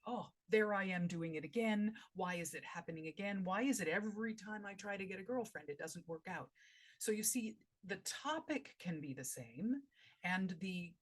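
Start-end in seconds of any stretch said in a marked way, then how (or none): 0.1-6.5 mildly frustrated, asking oneself why; thinking aloud, fed up with oneself; exasperated self-talk. Acted. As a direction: berate yourself with a touch of exasperation. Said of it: "what you would do is say".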